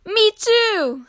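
high, excited copycat chirp; high-pitched childlike eagerness; eager little brother. A narrator's reading. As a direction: pipe up eagerly in a small child's voice. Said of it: "spluttered Flop".

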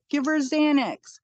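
high, urgent repeated demand; retold frantic plea for medicine. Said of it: "I'm like".

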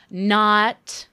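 mock-jokey sarcastic punchline; hammed-up sarcastic retraction. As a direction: drop it as a deliberate lame gag. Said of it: "That's some good sarcasm".

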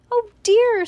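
high, loud exclamation; exclaiming. A narrator's reading. Missus Watson caught in the chase, exclaiming.

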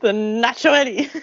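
slow, laughing repeat. Real, not acted. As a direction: savor the punchline, laughing.

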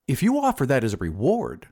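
mildly eager bargaining; a touch of keenness. Acted. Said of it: "said the glassblower eagerly".

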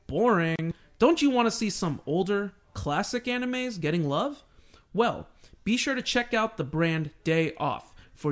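upbeat host ad read. Acted. Podcast host reading a sponsor spot, upbeat ad read. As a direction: pitch the sponsor like a radio spot.

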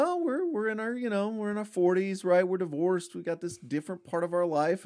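a hint of a shrugging middle-aged friend; imitating the duo. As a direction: muse as newly divorced pals. Voicing the duo's thoughts.

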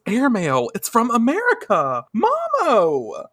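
high, rising mock excitement; excited squeal. Heroine calls to Momo about mail from America, excitedly. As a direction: build to a high-pitched call.

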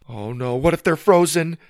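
high, loud worry; freaking out. Acted. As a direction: fret aloud as the panic mounts. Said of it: "start to freak out".

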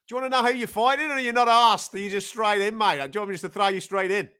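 brisk put-on Australian matchmaker; the speaker in Australian accent. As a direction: ask it as an Australian mate on the phone. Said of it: "better Australian accent".

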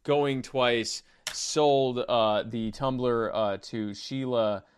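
loud auctioneer's countdown; auctioneer closing sale. Pretend. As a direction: call out the bids closing, loudly.

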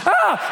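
short high "ah"; mock yelp as you get smacked; acted yelp. Strap hits while screaming in fall.

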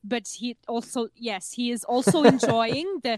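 put-on deadpan serious German accent; earnest German documentary maker on silly subjects; Werner Herzog. Describing the documentary maker to co-host, serious German accent. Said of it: "always sounds so serious".

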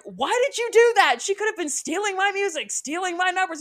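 high-pitched, hammed-up scolding; mock outrage. Dance coach berating mom over the tickets, mock outrage.

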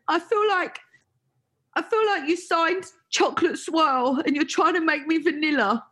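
mock-exasperated protest to the label boss; retold frustrated outburst. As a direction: push the complaint out as if pleading with the boss. Retelling her outburst to the label boss.

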